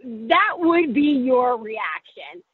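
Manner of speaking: slow dry deadpan, drawn out; dry deadpan reply. Retold or imitated. Daughter answering her mom's boast, slow dry deadpan. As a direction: let it land slowly, unimpressed. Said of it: "I'm like".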